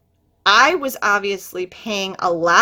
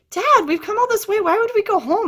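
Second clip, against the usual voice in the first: put-on mad teen; 11 semitones higher than usual. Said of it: "I was really mad".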